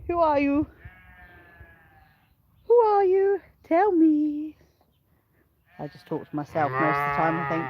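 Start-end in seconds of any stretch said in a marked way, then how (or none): 2.7-4.6 higher, playful asking; mock curious. Real, not acted. Farmer teases unseen viewers, higher playful question. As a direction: ask again, pitched up and teasing. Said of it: "I can see there's people watching".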